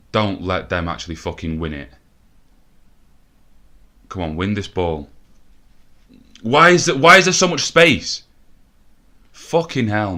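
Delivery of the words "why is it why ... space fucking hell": much higher, loud disbelieving shout; real outrage at the open space; exasperated yell. Real, not acted. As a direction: scream it at the defence in disbelief. Exasperated at defending.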